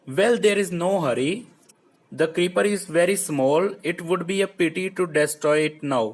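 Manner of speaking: slow, careful textbook reading; reading the text aloud. Acted. Teacher reading the story line to pupils, slow and careful. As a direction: read each word out slowly for the class.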